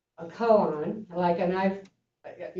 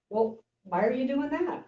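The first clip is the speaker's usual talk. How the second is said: teacher asking why; 6 semitones higher than usual. Retold or imitated. Teacher questions monk.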